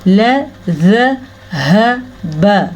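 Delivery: ल ज़ ह ब spelled slowly; letter by letter. Shown as a demonstration. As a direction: break it into single sounds. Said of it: "हमने पढ़ना है ल".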